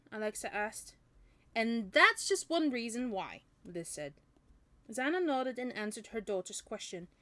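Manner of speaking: clear, lively audiobook reading; story narration. A narrator's reading. Reading a novel to listeners, story narration. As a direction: read the story out with animated dialogue.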